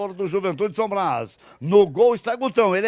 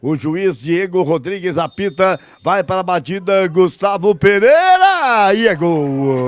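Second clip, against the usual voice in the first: louder rush to the goal; building penalty call; 4 semitones lower, 5 dB louder than usual. Real, not acted. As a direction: push toward the goal call.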